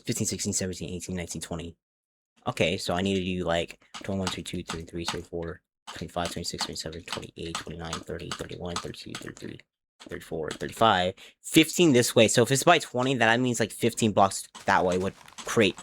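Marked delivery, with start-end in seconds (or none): 0.1-11.1 quiet counting. Real, not acted. Counting blocks under breath.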